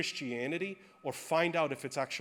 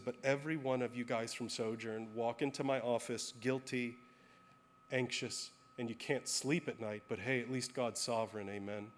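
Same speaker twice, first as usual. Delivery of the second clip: gentle, calm; 3 semitones lower, 5 dB quieter than usual. Retold or imitated. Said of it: "Very gently".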